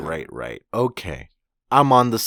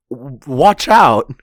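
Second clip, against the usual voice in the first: louder, drawn-out retold warning; mock warning shout; 5 dB louder, slower than usual. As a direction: call out a slow pretend warning. Kinemon's warning to Sanji, retold.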